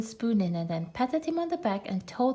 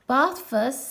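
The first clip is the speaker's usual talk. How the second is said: cheerful; 4 semitones higher, 5 dB louder than usual. Acted. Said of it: "in a cheerful voice".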